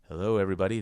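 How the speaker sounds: super ultra deep bass voice. Greeting everybody while trying out a put-on deep bassy voice. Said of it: "I'm going to try to talk with my bassy voice".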